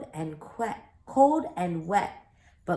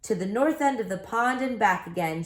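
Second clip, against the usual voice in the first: referee shouting; 3 semitones higher than usual. Acted. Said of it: "shouted the referee".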